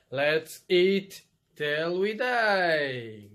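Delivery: big drawn-out slogan call; hammed-up catchphrase; slow catchphrase call. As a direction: stretch it out loud and slow. Shouting the show's catchphrase.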